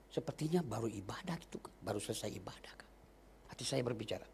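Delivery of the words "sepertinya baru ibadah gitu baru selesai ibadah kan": whispered thought. Retold or imitated. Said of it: "Pikiran saya berpikir".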